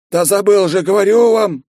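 high, loud whiny protest; plaintive moan. A narrator's reading. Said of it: "жалобно простонал Кичендаш". (жалобный высокий стон)

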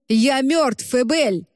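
a shout that cuts through the rumble; sudden shout. A narrator's reading. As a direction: burst out shouting at her. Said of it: "вдруг крикнул он".

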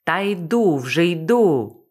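lazy, slow drawl of a reply. Acted. Laid-back Bobby answering her panic, lazy. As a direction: answer like you can barely be bothered. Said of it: "його лінивий голос".

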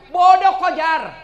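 loud, high mock scolding; scolding outburst. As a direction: scold her loudly as the tempter. Satan taunts Hajar in story. (omelan keras bernada tinggi)

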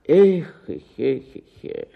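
fading sighs. Acted. Sighing lament fading.

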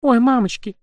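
high, startled little squeak; frightened squeak. A narrator's reading. A frightened girl in the kitchen squeaks, high and startled. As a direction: squeak in fright after dropping something. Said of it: "испуганный голос едва слышно пискнул".

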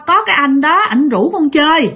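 lightly voiced sobbing toddler; crying child voice. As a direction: speak like a frightened three-year-old, near tears. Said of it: "mà vừa nói vừa khóc nha".

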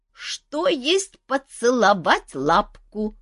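high, very slow puzzled question; a dragon asking innocently; curious dragon. Acted. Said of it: "заинтересовалась дама".

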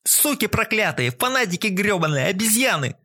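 angry yelling. A narrator's reading. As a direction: spit the insults in rage. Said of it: "орал студент".

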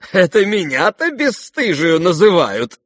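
high, loud mocking retort; scornful mirth. A narrator's reading. Nastasya mocking Varya's insult, scornfully amused. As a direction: toss it back with disdainful glee. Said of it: "с пренебрежительной весёлостью".

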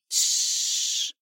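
hushed unvoiced shush; gentle whispered shush; soft hiss. A narrator's reading. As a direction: hush the frightened animal softly. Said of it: "тихо прошипела".

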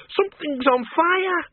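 high, slow, alarmed cry; alarmed old woman. Acted. Miss Flitworth warns Bill of the fire, alarmed and high. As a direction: raise the alarm.

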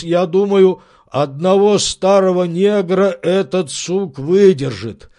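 slow, loud, sly servant; servant's scheming voice. Acted. Servant hinting he'll drop the beetle, sly. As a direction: drag it out cunningly.

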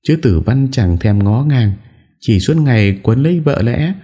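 high, tearful whine of grievance; wife tearfully complaining to her in-laws; whimpering complaint. A narrator's reading. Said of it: "An Nhã mếu máo".

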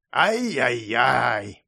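slow, drawn-out scolding ai-yai-yai; mock reproach, stretched out slowly; tut-tut. A narrator's reading. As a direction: wag a finger with a long tutting. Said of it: "подсоков языком и покачав головой".

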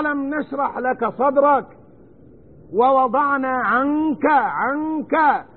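عنك slowed with the nun hidden and nasal before the kaf; slow tajweed recitation; ikhfa on nun. Shown as a demonstration. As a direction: draw out عنك, half-hiding the nun. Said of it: "هنا يوجد نون ساكنة مع الكاف".

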